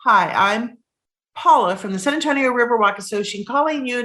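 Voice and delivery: quick, bright phone introduction; chirpy caller intro. Retold or imitated. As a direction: rattle off a cheery sales greeting. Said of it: "they'll say up front".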